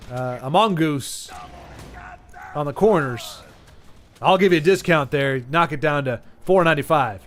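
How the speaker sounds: lightly voiced southern storekeeper, unhurried; a hint of a folksy southern accent. Alaska storekeeper haggling over the last PlayStation, mild southern accent. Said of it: "they all have a southern accent".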